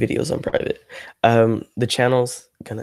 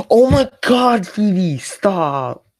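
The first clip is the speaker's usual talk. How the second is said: shocked squeal; 9 semitones higher, 5 dB louder, much slower than usual. Real, not acted. Fell for chat's trick.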